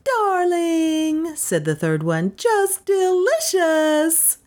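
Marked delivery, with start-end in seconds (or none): 0.0-1.4 high, drawn-out gushing coo; fawning high-pitched admirer. A narrator's reading. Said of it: "patted her hands and cooed". 2.4-4.4 high, very slow fawning squeal; syrupy high-pitched cooing; gushing admirer. A narrator's reading. Third woman gushes over dog.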